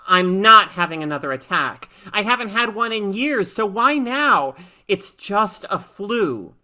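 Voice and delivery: a touch of panic talked down; anxious girl. Acted. Lisa fears another attack.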